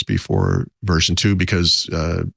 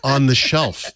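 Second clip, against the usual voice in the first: incredulous; 6 semitones higher, slower than usual. Retold or imitated. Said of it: "And I'm like".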